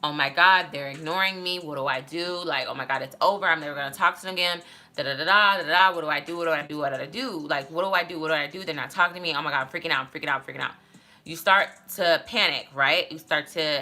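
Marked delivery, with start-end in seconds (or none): 0.0-10.7 mock panicked spiral, repeating in a rush; freaking out. Acting out being ignored after a breakup, mildly panicked. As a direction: act out a mild freak-out, thoughts tumbling over each other. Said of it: "go into the freak out phase".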